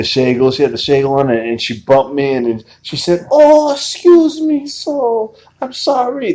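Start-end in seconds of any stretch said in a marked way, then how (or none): 3.3-6.3 very high, very slow, bad put-on Jamaican accent. Retelling what a woman on a train said after bumping him, terrible accent impression. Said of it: "The terrible accent, terrible impression".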